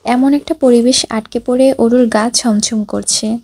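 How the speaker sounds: ordinary delivery, nothing marked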